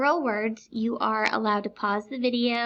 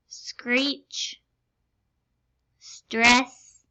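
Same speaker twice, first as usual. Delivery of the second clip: over enunciating; much slower than usual. Shown as a demonstration. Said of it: "but I'm gonna enunciate very clearly".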